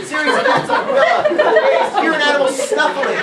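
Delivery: high, hammed-up announcing; a mock trailer voice; mock dramatic narration. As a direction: overplay the montage.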